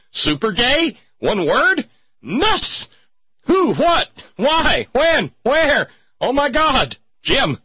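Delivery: squealing high, rapid mock panic; high-pitched camp freakout; mock hysterical. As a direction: shriek each question in fake hysteria.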